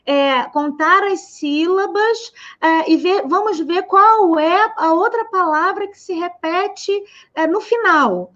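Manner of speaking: lightly voiced teacher addressing a class; slow, stretched-out classroom instruction; a hint of a teacher explaining step by step; teacher instructing. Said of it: "o professor fala".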